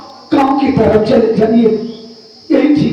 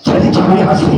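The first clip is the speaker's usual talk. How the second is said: much lower, rough dismissal; low angry order; 8 semitones lower, faster than usual. Acted. Younger brother ordering the intruder away, low and angry. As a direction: send him away under your breath.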